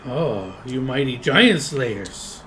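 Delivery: slow mock-impressed drawl; mock the boasting heroes; sarcastic goblin. Goblin mocking the party's giant boast, slow sarcasm.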